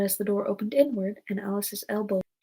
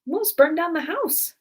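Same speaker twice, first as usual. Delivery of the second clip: high, slow, louder pronouncement; higher-pitched rabbit giving orders; rabbit's voice; 7 semitones higher, 5 dB louder, slower than usual. A narrator's reading. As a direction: declare it slowly in a raised character voice. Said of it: "said the rabbit's voice".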